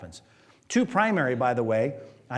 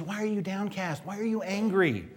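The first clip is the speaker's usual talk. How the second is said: gentle question; 3 semitones higher, 5 dB quieter than usual. Retold or imitated. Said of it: "He says".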